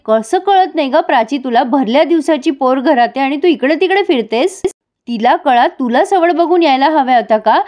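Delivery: mild acted reproach; retold angry scolding. Aunt telling Prachi off for wandering about, mildly cross. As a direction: act out an annoyed aunt, without shouting. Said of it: "पन्ना काकू खूप चिडते आणि म्हणते".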